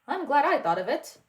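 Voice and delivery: loud, pompous commands; mock royal orders. Prince teaching Mickey royal lines, pompous loud orders. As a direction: play the grand ruler. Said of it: "you need to only say".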